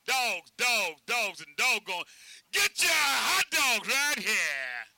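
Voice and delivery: high, loud street-vendor patter, key words drawn out; hollered hot dog pitch. Shown as a demonstration. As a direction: belt out the pitch to the crowd. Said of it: "but we holler".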